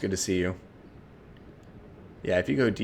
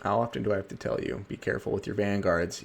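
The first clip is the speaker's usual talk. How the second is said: Dark Elf voice. Pretend. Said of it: "Dark Elf voice".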